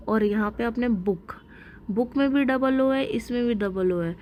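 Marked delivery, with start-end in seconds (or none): 0.9-1.3 बुक with a short, unforced oo; बुक, vowel kept short. Shown as a demonstration. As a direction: say बुक normally, no push on the vowel. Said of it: "ज़्यादा ज़ोर नहीं लगा रहे हो".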